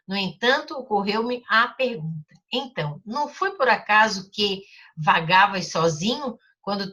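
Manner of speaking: put-on storybook reading for children; teacher reading a story aloud. A narrator's reading. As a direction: read the story gently to the class. Reads the Little Prince aloud.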